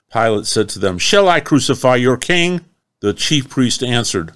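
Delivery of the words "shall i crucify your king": incredulous question. Acted. Pilate questioning the crowd.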